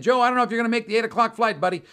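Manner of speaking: loud, high, fast protest; exasperated. Retold or imitated. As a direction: raise your voice, acting out frayed patience. Teller exasperated with insistent Joe.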